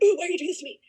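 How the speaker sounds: high-pitched mock outburst; mock upset kid. Tutoring kid mad at the tutor on FaceTime, high mock upset. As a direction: imitate a mad kid's protest. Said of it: "He got real mad at me".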